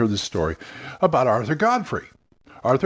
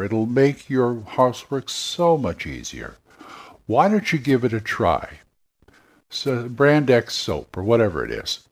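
Arthur Godfrey. Retold or imitated. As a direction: talk to one friend about the soap. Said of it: "Arthur Godfrey would do that commercial".

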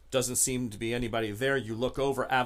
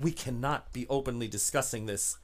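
secretive contact. Acted. Contact refuses open talk.

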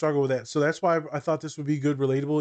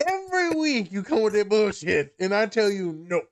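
angry boss; 6 semitones higher than usual. Pretend. Therapist scolding client.

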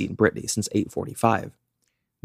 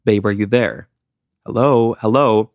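worried calling out; 4 dB louder than usual. Retold or imitated. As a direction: call out into a silent phone, worried. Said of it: "he was like".

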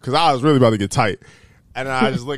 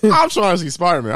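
excited retold protest, higher pitched; impatient and raised in pitch; hyped; 5 semitones higher, 4 dB louder than usual. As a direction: insist on it, all hyped up. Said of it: "I'm hyped".

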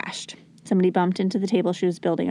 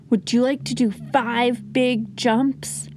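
calm offer; 2 semitones higher, slower than usual. Shown as a demonstration. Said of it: "How can I help you feel calm".

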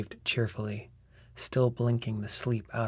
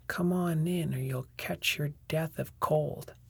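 mimicking a parent; 6 semitones higher than usual. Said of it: "He mimicked voice and tone faithfully".

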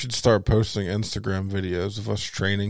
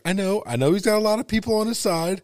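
high mock whine; 10 semitones higher than usual. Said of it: "He's like".

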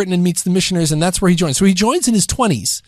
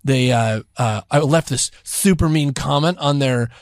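annoying activist; 5 semitones lower than usual. Retold or imitated. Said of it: "the annoying activist to, like, you know, the wannabe socialite".

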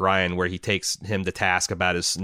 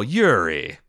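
slow, higher-pitched disbelief; mock incredulity; 8 semitones higher, 4 dB louder, slower than usual. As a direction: draw it out in playful, acted astonishment. Acting out film advisor's incredulous reply.

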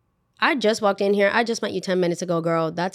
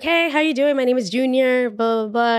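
mock cheery high greeting, a bit louder; higher, brighter hey from a friendly guy; 5 semitones higher, 3 dB louder than usual. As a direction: play the eager new coworker saying hi. Imitating Junior's greeting.

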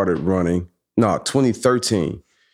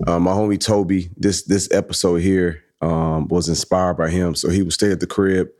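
sexy voice; 5 semitones lower than usual. Real, not acted. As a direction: drop into a low sultry tone. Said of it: "Why you talking with the sexy voice".

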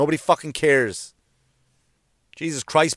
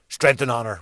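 mock solemn; 5 semitones lower than usual. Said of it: "we say, like fucking idiots".

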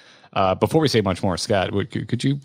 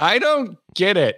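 deadpan; 8 semitones higher, slower than usual. Retold or imitated. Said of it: "I'm just like".

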